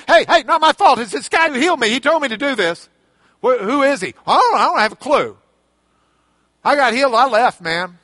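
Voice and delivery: loud, careless brush-off; defensive blame-shifting. Retold or imitated. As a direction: shrug off the blame loudly. Man dodging blame again.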